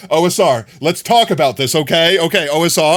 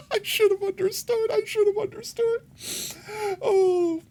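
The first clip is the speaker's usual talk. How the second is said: laughing; 6 dB quieter than usual. Real, not acted. Laughing squeaky repeat.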